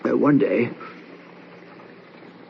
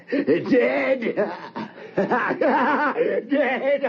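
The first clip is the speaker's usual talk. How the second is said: high, laughing madly; high manic laughing; mad laughter; 11 semitones higher than usual. Acted. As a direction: cackle over the word. Mad laughter after the murder.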